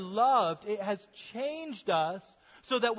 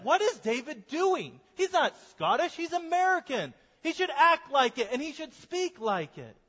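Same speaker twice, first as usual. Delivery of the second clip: incredulous listener; 7 semitones higher than usual. Retold or imitated. Congregation baffled by the pastor's fake Scottish accent, higher mock disbelief. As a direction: ask it like you can't believe what the pastor is doing. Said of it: "You'd be like".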